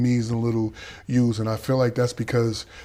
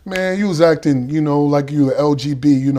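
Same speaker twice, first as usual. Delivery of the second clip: yelling on the tier; 4 semitones higher, 6 dB louder than usual. Retold or imitated. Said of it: "I'm yelling".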